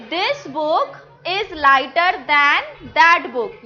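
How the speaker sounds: slow classroom dictation; slow model sentence. Shown as a demonstration. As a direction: lay the sentence out for children. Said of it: "teacher models full sentence slowly".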